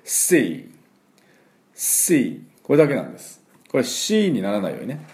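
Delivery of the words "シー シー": シー with a drawn-out s; long hissed sea. Shown as a demonstration. Teacher demonstrating シー like a tyre leak. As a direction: pull the s of シー out like air leaking. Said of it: "そのまま引っ張って".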